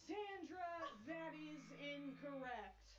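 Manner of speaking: slow stern host verdict; game show host. Pretend. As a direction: deliver it like a quiz host. Host rejects answer.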